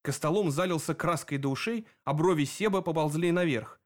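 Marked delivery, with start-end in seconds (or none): none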